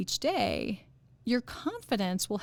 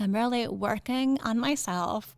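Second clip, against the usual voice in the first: lightly mocking hokey self-help voice; a hint of put-on earnestness; go-to self-improvement voice. Host mocking hokey self-improvement talk, lightly put-on self-help voice. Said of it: "that's the go-to voice".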